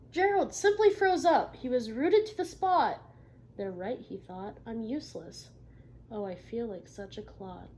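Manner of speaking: picture-book read-aloud; reading to children. Acted. Teacher reading a story to the class.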